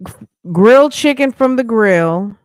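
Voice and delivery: mocking repeat. Repeating friend's words in mockery.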